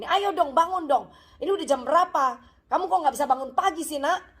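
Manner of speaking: hammed-up cross mum in the morning; mock angry mother. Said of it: "marah-marah pagi-pagi".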